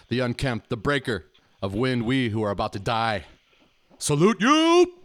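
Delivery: soft epic title roll, then booming salute; booming defiant gladiator. Acted. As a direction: hail the king like a gladiator. Mock royal titles, gladiator salute.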